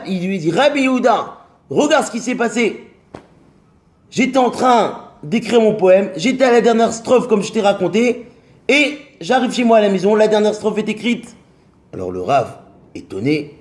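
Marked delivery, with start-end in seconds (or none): 0.5-11.3 higher-pitched, eager telling of a wonder; amazed friend pouring out his news; astonished, excited. Acted. Poet rushing to tell the rabbi of the miracle, astonished.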